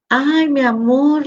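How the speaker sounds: slow, tender "ay, mi amor"; aunt comforting her sad niece, slow and tender. Retold or imitated. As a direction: soothe a sad child, slowly. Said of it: "le digo".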